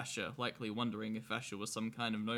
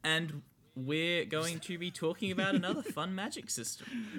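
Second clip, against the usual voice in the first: faking tiredness; 7 semitones higher, 3 dB louder than usual. Pretend. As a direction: fake yawn while talking. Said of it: "Was that a fake yawn?".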